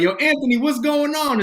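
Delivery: high, loud retold hail; calling out greeting. Worker greeting Anthony downstairs, high and loud. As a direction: call to someone across the room.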